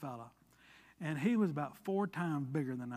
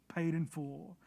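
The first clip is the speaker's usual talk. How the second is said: "paid in full" echoed much softer, "paid" still leading; 6 dB quieter than usual. Shown as a demonstration. Preacher echoing the stamp to himself, softly. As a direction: let "paid in full" fall away to a hush. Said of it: "this word right here".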